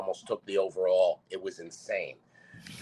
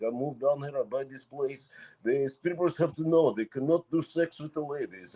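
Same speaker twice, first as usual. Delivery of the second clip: put-on Russian accent; 3 semitones higher than usual. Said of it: "He's like".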